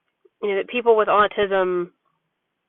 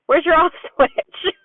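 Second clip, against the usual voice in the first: higher sing-song teasing, slower; playful tickling tease; 8 semitones higher, 3 dB louder than usual. Retold or imitated. Mom tickling her son in bed, playful higher tease. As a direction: tease a giggling child while tickling. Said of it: "And I said".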